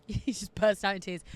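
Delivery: laughing through the words; trying to speak through a laugh. Real, not acted. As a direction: giggle at the mental picture. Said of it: "Let me not laugh".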